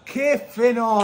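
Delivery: high amazed exclaim; excited. Real, not acted. Reacting to goal.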